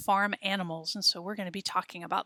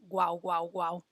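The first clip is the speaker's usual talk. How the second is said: dog woof; 3 semitones lower than usual. Acted. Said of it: "And the perro says".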